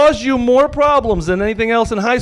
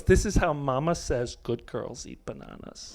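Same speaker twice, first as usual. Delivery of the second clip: innocent daughter voice; 5 semitones lower, 9 dB quieter than usual. Retold or imitated. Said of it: "She goes".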